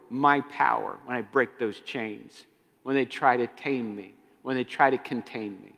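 low, measured voice of the demon Legion; a lightly voiced cold demon boasting; Legion speaking. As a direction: speak as the organized demon, calm and sure. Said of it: "Legion says".

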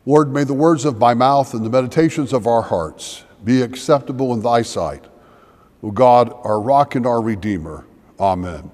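hushed, steady spoken prayer. Acted. Leads the congregation in prayer.

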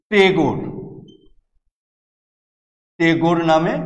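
Bengali Thakur said the British way as টেগোর; teacher shows how the British mangled ঠাকুর into টেগোর; British mispronunciation. Shown as a demonstration. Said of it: "ঠাকুর থেকে".

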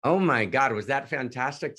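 Oh my God blurted in raw excitement; thrilled outburst. Real, not acted. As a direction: burst out in delight. Raving after the recitation.

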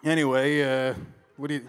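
normal talking voice

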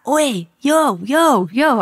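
high, drawn-out street holler; mimicking a dealer's shout after someone; imitated calling out. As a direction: hail someone up the road, pitched high. Retold dealer calling up the road.

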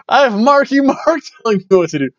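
high, fast mock southern drawl with a laugh. Imitating AJ Styles mocking a rapper, southern drawl. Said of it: "in his southern drawl".

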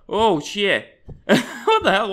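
laughing through a fright; scared laugh. Real, not acted. Gamer laughing after a jump scare.

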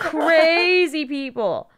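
slow words through laughter; laughing. Real, not acted. Laughing at chaos.

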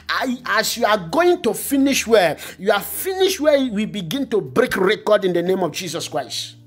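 fervent, driving prayer proclamation; preacher's emphatic prayer cadence; prayer declaration. Real, not acted. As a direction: declare blessings with rising intensity. Declares prayer blessings over listeners.

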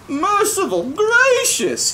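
high, slow startled gulp; a startled gasp of alarm, pitched high; high shocked exclamation. Acted. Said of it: "he gulped".

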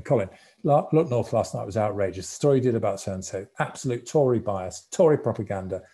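imitating an aggrieved complainer; indignant complaint. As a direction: act out an indignant phone rant. Acts out angry party phone complaint.

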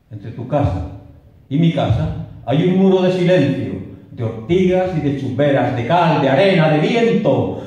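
dramatic declamation of a love poem, swelling and falling; poem recitation. Acted. Reciting Rafael de León's love poem to an audience, impassioned. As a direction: recite it with swelling passion, falling back at line ends.

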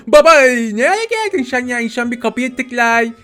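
put-on high, cutesy baby voice with childish mispronunciations; Bebek Gaffur. Player as the baby teasing dad, childish high voice. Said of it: "Hadi o zaman Bebek Gaffur olalım biraz".

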